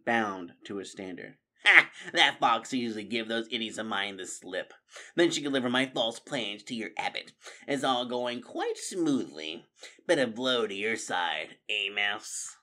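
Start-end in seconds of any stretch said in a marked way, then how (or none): 1.7-12.6 gloating warlord. Acted. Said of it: "Clooney spoke aloud to the picture of Martin".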